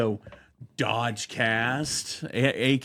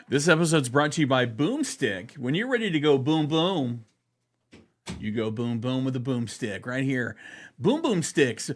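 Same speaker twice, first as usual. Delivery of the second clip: hammed-up sponsor pitch, bouncy and quick; mock ad read. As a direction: sell the boomstick like a cheesy commercial.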